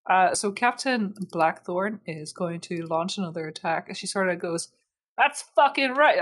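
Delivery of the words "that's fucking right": raised, louder attempt at a cowboy accent. Game master voicing Captain Blackthorn, failing cowboy accent. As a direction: have a go at a cowboy twang. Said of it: "I can't do a fucking cowboy accent".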